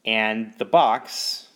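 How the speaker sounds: suspense pause. Shown as a demonstration. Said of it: "Now give it a really big force like this".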